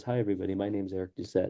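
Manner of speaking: mumbled at everyday conversational tone. Showing how students introduce themselves when presenting, quiet conversational mumble. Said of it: "they mumble or they talk at conversational tone. So they'll talk like this".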